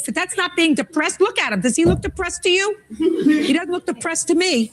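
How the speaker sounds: high scoffing disbelief; sarcastic scoffing. Real, not acted. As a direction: scoff at the excuse. Judge scoffing at depression excuse.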